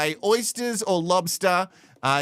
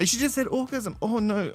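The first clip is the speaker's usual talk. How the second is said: lightly voiced giggling kid, a bit higher; a hint of a sniggering schoolboy; giggly mock schoolboy; 4 semitones higher than usual. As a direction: tease like a tittering boy at the pub. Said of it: "giggle like a little".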